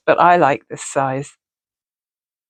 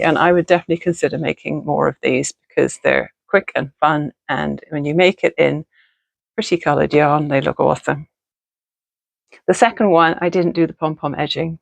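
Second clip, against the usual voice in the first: talking with a retainer in; wearing a retainer. Real, not acted. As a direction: speak around a dental retainer. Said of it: "I'm talking to you with my retainers in".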